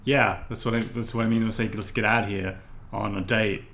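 brash dock worker hollering at the rich; rough fisherman. Acted. Fisherman character.

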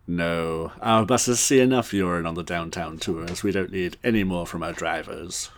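lightly put-on English boss; understated British refusal; Hugh Grant. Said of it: "trying to do more of a Hugh Grant".

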